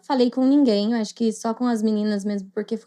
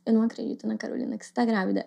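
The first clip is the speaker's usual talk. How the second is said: stunned disbelief; 5 dB quieter, faster than usual. Retold or imitated. Friend's stunned quiet reaction.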